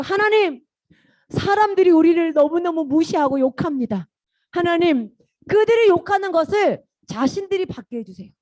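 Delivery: acted plea to God; Nehemiah praying. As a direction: appeal to God against the mockers. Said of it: "하나님께 말했어".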